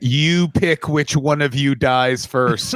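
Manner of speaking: slow, deliberate mock threat; imitating a menacing dad, drawn out; retold threat. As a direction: spell out the threat slowly. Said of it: "held him close and went".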